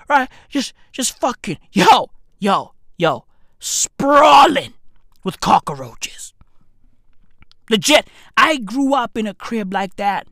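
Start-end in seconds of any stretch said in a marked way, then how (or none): 0.1-6.3 dramatic stretch to whisper. Acted. Dramatic township description.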